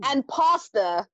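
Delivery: slow, stretched out reveal; slow deliberate reading. Shown as a demonstration. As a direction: say it slowly, savouring it. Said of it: "you have the words".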